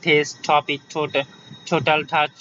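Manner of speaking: "টেস্ট", "টপিক", "টোটাল" with puffed t; airy t as in "টপিক"; aspirated T. Shown as a demonstration. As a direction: drill "টোটাল টাচ" with aspirated t. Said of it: "এ পাশে টি sound".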